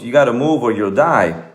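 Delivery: imitated pleading, pitched well up; retold urgent plea. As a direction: press the point as the pleading kid. Retold kid pleading with sinking horse.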